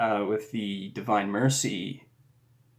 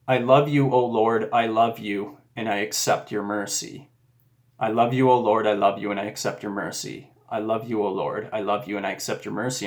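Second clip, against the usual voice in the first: repeated prayer. Retold or imitated. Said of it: "I started praying this prayer over and over and over".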